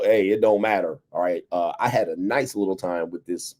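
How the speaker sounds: usual speaking voice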